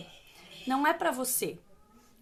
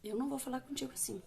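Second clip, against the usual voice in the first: softly and firmly, a bit quicker; quiet, steady no to a shouting child; quiet firm refusal; 7 dB quieter, faster than usual. Shown as a demonstration. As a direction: drop the volume and hold the limit. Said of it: "você silencia".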